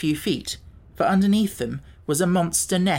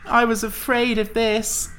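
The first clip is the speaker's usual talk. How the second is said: slow, higher moaning voice; pumpkin head voice; 7 semitones higher than usual. A narrator's reading. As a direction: moan it in dread. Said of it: "moaned the Pumpkinhead".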